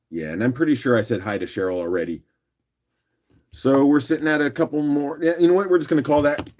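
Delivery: hoarse, just-woke-up voice; rough morning voice. Real, not acted. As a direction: talk through a rough morning voice. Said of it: "Sorry again for my rough morning voice".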